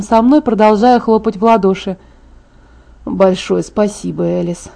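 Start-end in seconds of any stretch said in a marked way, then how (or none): 3.1-4.7 slow, understated sarcasm; caustic thanks. A narrator's reading. Fiancé thanks the meddling friend, mildly caustic. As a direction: thank with a dry, lowered sting. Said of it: "едко поблагодарил её Эдвард".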